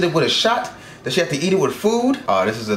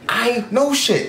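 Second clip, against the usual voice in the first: much slower, each word stretched; slow emphatic repeat; 6 semitones higher, much slower than usual. Shown as a demonstration. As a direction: drag out "I know shit" slowly.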